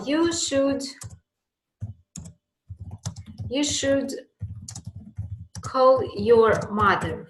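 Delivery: lifted, deliberate "you should"; example recommendation. Shown as a demonstration. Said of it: "you say".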